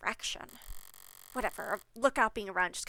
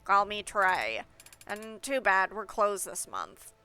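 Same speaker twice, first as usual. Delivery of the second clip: louder pinched-nose voice; nasal gatekeeper voice; 2 semitones lower, 4 dB louder, slower than usual. Acted. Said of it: "the most nasal voice possible".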